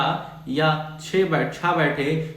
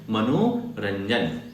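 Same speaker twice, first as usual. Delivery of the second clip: slow demo; 6 semitones lower, much slower than usual. Shown as a demonstration. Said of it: "teacher demonstrates joined word".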